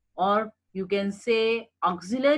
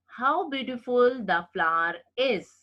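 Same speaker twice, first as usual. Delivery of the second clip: exclamation; 3 semitones higher than usual. Shown as a demonstration. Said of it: "Exclamation mark".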